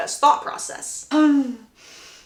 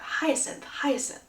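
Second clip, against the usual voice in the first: hushed, voiceless repeated name; tongue-tied repetition; 3 semitones higher, 9 dB quieter, slower than usual. Acted. Suitor keeps repeating her name, hushed and tongue-tied. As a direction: murmur the name as if stuck on it. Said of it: "He's just repeating that".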